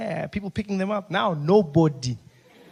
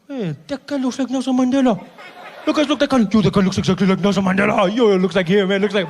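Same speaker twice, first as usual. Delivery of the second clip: excited driver; 5 dB louder than usual. Retold or imitated. Driver pointing Mandela out to friends, loud and excited. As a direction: hype your friends up. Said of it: "I'd be like".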